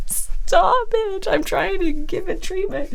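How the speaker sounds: high, whispered self-scolding; playful high whisper to herself; mock whisper. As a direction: hush yourself, giggling at your own mischief. Retelling hushing herself during treatment.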